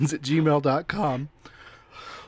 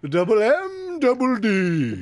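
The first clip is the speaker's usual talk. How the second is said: drawn-out emphatic spelling; 9 semitones higher, 7 dB louder, much slower than usual. Acted. Spelling out his handle emphatically.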